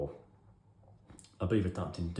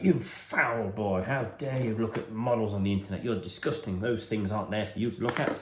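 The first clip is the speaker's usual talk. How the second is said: outraged teacher; 3 semitones higher than usual. Retold or imitated. Religious teacher scolding the boy about models. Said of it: "She's like".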